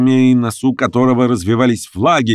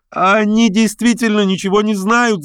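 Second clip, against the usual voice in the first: much higher, cried-out woman's voice; woman's cry; 12 semitones higher than usual. A narrator's reading. Masked woman shouts to the boat, astonished. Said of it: "закричала женщина в полумаске".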